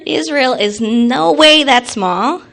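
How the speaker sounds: put-on a little girl insisting to her teacher, slowly and firmly; indignant child protest. Third grader objecting to the teacher, slow and indignant. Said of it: "I said".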